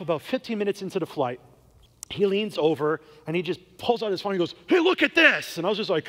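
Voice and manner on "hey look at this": blurted out high and loud to grab attention; loud, abrupt hey from the stranger; sudden loud call. Retold or imitated. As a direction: startle him with it. Stranger suddenly thrusts phone over.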